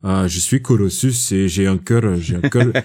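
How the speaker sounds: a hint of a pompous strongman bragging; mocking Red Guardian. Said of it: "il la joue".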